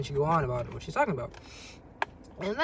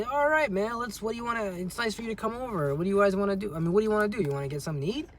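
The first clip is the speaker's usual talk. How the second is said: upbeat host; 5 semitones higher than usual. Pretend. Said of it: "And then I'd be".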